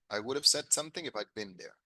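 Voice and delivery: "would have" run together as "would'a" and "if I'd been" contracted; the natural connected American way; American reduced would have. Shown as a demonstration. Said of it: "podría decir algo así". (frase conectada al estilo americano)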